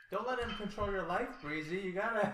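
urgent plea. Acted. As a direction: push Breezy hard, loudly. Urging friend, calling out.

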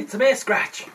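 loud dismissive scoff; mocking. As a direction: brush off the fuss loudly. Mocking injured gnome.

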